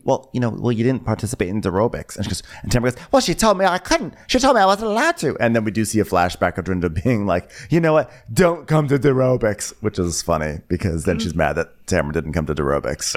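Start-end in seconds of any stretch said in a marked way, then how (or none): 3.1-5.4 much higher, plaintive complaint; whiny Tamara. Retold or imitated. 7.7-9.7 slow, dismissive put-on voice; bossy Dorinda. Dorinda quoted in flashback.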